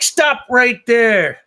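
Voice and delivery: loud, slow, high guard shout. Acted. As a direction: bark it like an armed guard.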